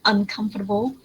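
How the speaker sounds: Uncomfortable with a weak, unstressed -table; reduced table ending. Shown as a demonstration. Teacher repeating the correction, Uncomfortable with reduced ending. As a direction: stress COM in Uncomfortable, swallow the ending. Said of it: "don't say table".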